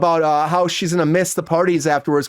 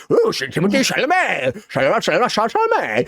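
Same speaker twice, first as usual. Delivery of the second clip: sing-song name calling; 4 semitones higher than usual. Retold or imitated.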